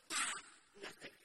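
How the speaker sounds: imitating a loud frustrated bark at the dice. Preacher imitating a frustrated temple worshipper, loud and exasperated. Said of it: "He was so frustrated".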